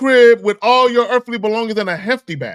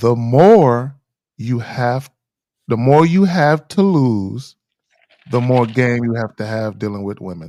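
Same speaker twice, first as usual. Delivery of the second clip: deliberately slow delivery, much lower pitch; 11 semitones lower than usual. Asked for his take, the speaker spells out his point, saying it slowly. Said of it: "I'm gonna say it slow".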